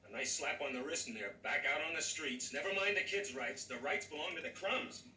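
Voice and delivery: father lashing out at lenient judges; angry outburst. Acted. Father venting at the sergeant, growing angry. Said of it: "Tom, don't get angry".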